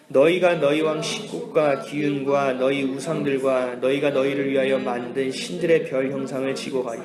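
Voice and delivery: measured, even-toned Bible reading; scripture reading. Acted. Preacher leads congregation in reading the verse, measured recitation. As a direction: read the verse solemnly and evenly.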